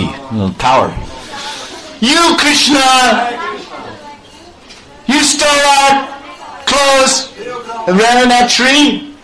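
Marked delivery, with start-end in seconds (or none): 2.0-9.1 haughty Lalita scolding. Acted. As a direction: scold him like a hot-tempered girl. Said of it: "she's very hot-tempered".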